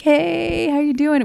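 high, sing-out hello; playful imitation of an upbeat hail; imitated cheery greeting. Acted friendly greeting from passing rider.

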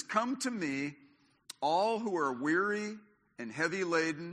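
scripture reading. Acted. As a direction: read the invitation like a preacher. Reads Jesus' words aloud.

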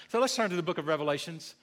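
quick deliberate slip, Revelations with an S; mock slip. Teasing the congregation with a fake slip. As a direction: rattle off Revelations as a joke slip. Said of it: "No, I'm just kidding".

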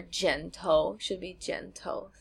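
剪头 in third tone, then second tone; careful tones. Shown as a demonstration. Co-host checking the tones of a Chinese word, careful tones. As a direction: say 剪头 slowly, dipping 剪, rising 头.

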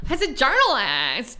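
mock uptalk on journalist; mocking imitation. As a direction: parrot her prissy inflection. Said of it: "why do they talk this way".

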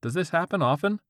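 lightly voiced squeaky teen; a hint of a squeaky teen. A narrator's reading. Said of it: "The squeaky-voiced teen".

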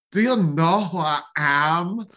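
slow, imperious mock German accent from a Russian speaker; Russian faking a German accent. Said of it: "a Russian trying to mimic a German accent".

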